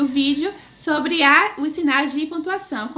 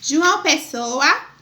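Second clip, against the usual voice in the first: slow dictation; 3 dB louder, much slower than usual. Shown as a demonstration. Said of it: "Bora acompanhar aí".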